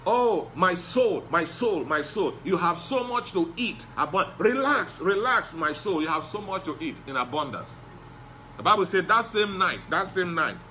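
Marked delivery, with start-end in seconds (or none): 0.1-7.8 self-satisfied rich man. Retold or imitated. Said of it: "who refused to give said that".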